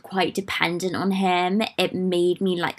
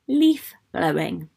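whispered aside; 2 semitones lower than usual. Acted. Aside about neighbor's leaf blower.

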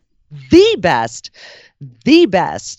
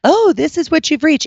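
voicemail greeting; 9 semitones higher than usual. Retold or imitated. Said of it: "there is no voicemail going".

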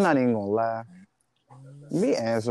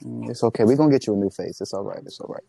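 mock soothing; faster than usual. Mock comforting a crying person.

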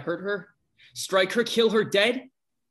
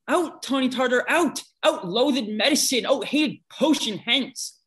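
angry; 4 semitones higher, 3 dB louder than usual. Acted. Lysander spurns Hermia.

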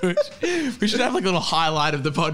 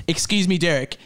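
put-on Australian accent. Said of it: "the fan fiction in Australian".

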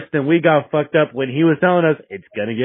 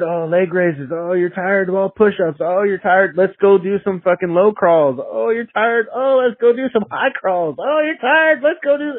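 taunting drill sergeant; 5 semitones higher than usual. Retold or imitated. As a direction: needle the tired recruits, pitch rising each round.

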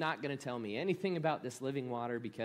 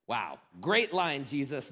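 sarcastic; 4 semitones lower than usual. Real, not acted. Sarcastic aside about Jesus' line.

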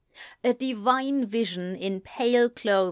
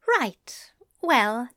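flustered Alistair; 3 semitones higher than usual. A narrator's reading. Alistair voiced by narrator.

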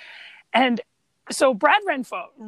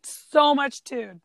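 drawn-out tude; much slower than usual. Real, not acted. Echoing cohost's praise.

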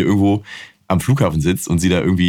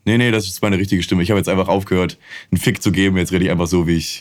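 lower, plain-spoken real voice; deep voice; 4 semitones lower than usual. Retold or imitated. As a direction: talk low and matter-of-fact. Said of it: "total tiefe Stimme".

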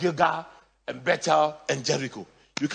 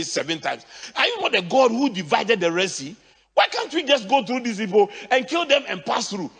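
hammed-up whining questions, higher and louder; mock complaint; 6 semitones higher, 4 dB louder than usual. Preacher mocks Israelites grumbling at God, whining.

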